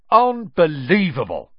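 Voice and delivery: high, loud delighted exclamation; beaming. Acted. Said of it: "beamed Seamus".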